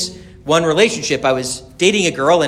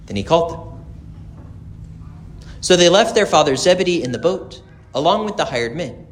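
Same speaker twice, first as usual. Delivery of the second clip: gospel reading; 4 dB quieter than usual. Acted. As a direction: proclaim it to the congregation.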